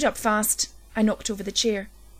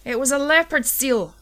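raised angry yell at his wife; 5 semitones higher, 4 dB louder than usual. A narrator's reading. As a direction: shout it in a heated row. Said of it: "I yelled at Ellen".

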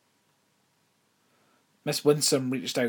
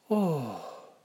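voice cracking; 6 semitones higher than usual. A narrator's reading. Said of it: "her voice cracking".

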